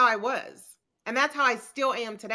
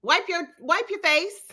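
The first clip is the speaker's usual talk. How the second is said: higher, brisk tough-love pep talk; 4 semitones higher, 3 dB louder, faster than usual. Retold or imitated. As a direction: snap her friend out of crying. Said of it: "and I'm like".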